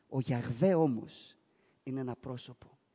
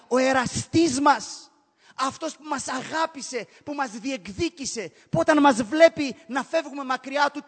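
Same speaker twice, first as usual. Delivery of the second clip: loud, impassioned sermon climax, pitch raised; preaching at full force; 7 semitones higher, 8 dB louder than usual. Acted. Preacher crying out to the congregation, fervent and loud. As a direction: pour your heart out from the pulpit. Passionate preaching about God.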